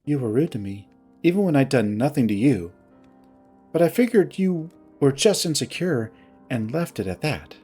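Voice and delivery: mildly curt, controlled grievance. Acted. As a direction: recount the betrayal with restrained reproach. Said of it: "her tone curt".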